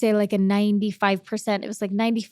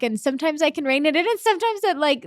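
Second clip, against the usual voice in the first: getting misty; 5 semitones higher than usual. Real, not acted. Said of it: "I know, me too".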